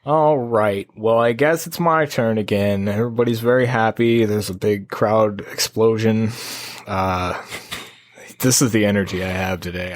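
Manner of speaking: low-key, deadpan announcing; laid-back yet pushy; chill but aggressive. Real, not acted. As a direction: chill hype with little energy behind it. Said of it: "It's, like, chill, but aggressive".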